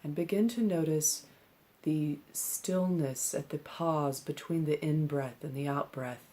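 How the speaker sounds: calm, measured meditation instruction with long pauses; unhurried meditation-teacher delivery; guided meditation. Acted. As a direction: guide them gently into stillness, leaving space between phrases. Leads a seated breathing meditation.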